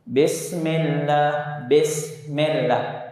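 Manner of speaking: bismillah said with a dull, dark fatha; slow, heavy bismillah; wrong fatha. Shown as a demonstration. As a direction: say "bismillah" with a thick, unsmiling vowel.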